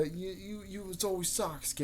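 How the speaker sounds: mock complaint. Naruto objecting that Sasuke gets trained, mock complaint.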